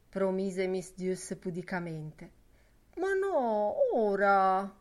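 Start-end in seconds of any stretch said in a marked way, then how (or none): 3.0-4.8 insisting Lenehan. Acted. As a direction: push back, eager and pressing. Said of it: "insisteva l'Enean".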